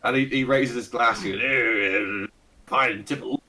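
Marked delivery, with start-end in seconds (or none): 1.4-3.4 lightly voiced pompous old aristocrat; a hint of a Ronnie Barker toff; pompous old lord. Fat old lord greeting the party, lightly pompous and fussy. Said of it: "with the accent and everything".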